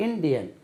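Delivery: "இந்தியன்" with a hard English D; English pronunciation. Shown as a demonstration. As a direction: pronounce "இந்தியன்" as IN-di-yen, hard D. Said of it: "உச்சரிப்பு எப்படி?".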